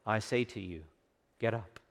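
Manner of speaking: put-on soft, tender call to the girl; gentle voice to the little girl; ever so gentle. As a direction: wake her gently. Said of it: "in a voice that must have been ever so gentle".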